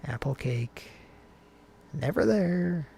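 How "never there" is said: raised pitch, brief playful call. Pretend. Co-host playing with words at the start, playful call. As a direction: call it high and short. Playful short take before stretched repeat.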